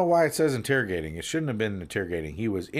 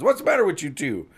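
exasperated, higher and louder cop rant; acted angry outburst, pitch climbing high; angry policeman; 9 semitones higher, 5 dB louder than usual. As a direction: scold them in rising disbelief. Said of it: "The policeman angrily responds".

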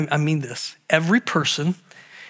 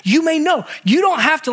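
high, loud emphatic preaching; preaching at full force; 10 semitones higher, 3 dB louder than usual. Real, not acted. Preacher urges believers they can know, loud and high. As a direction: drive the point home with force. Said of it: "preaching assurance".

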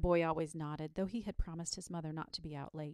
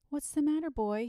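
higher, kindly concerned question; 8 semitones higher, 7 dB louder than usual. A narrator's reading. Saint George to the tearful boy, kindly. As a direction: ask the child kindly. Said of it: "he inquired kindly".

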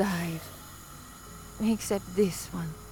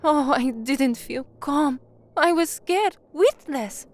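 much higher, louder, rushed-out fear; agitated confession; 5 semitones higher, 7 dB louder than usual. Acted. Woman telling her partner how scared she was, high loud agitated voice. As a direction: blurt how scared you were.

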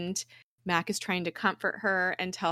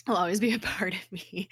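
choked up. Real, not acted. Chokes up retelling the sad scene.

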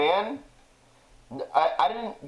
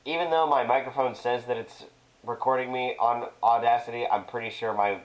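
tin can. Real, not acted. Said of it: "I'm gonna sound like a tin can".

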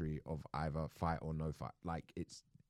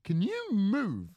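impatient demand; 12 semitones higher, 7 dB louder, much slower than usual. Retold or imitated. Telling friend to get out of the way.

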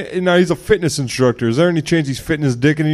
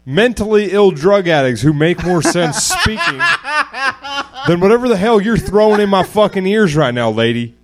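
dopey cartoon bellow; 4 semitones higher than usual. Yelling insults at guest.

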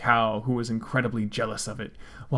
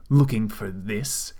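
mocking; 4 dB louder than usual. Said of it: "mocked Cold Steel".

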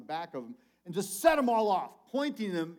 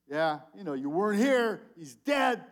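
throwaway remark; 5 dB louder than usual. Retold or imitated. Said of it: "It's sort of a throwaway".

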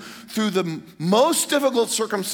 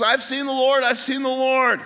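high, breaking the great news; acted burst of enthusiasm; excited; 8 semitones higher, 4 dB louder than usual. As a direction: announce it overjoyed, pitched way up. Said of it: "She's excited".

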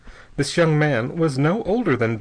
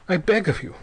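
a touch of bitterness, pitched higher; bitter; 7 semitones higher than usual. A narrator's reading. Young Ortiz pressing his invitation on Bell, bitter. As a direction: beg with a sour edge. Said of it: "said young Ortiz bitterly".

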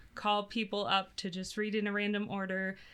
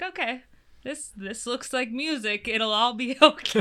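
light laughing self-quote; laughing through an old thought; retold own thought; 4 semitones higher, 8 dB louder than usual. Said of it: "and I was like".

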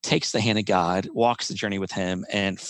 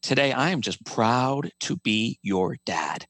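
slow tender father; slower than usual. Retold or imitated. Father telling his burned son how proud he is, slow and tender. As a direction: savor every word like a proud dad. Father's loving words retold.

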